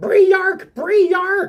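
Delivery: acted, shrill, very high, relentless repeated yelling. Voicing a character who keeps shouting at the players: yelling in character. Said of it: "he just keeps yelling".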